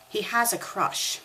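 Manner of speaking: put-on lightly British-accented girl voice; a hint of a British Hermione. Hermione explaining to Harry, in a light British accent. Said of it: "I'll do a British accent for this".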